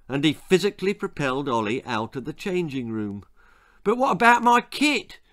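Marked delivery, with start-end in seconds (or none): 3.8-5.2 high, loud squeal; panicked boy's yelp. A narrator's reading. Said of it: "squealed the boy".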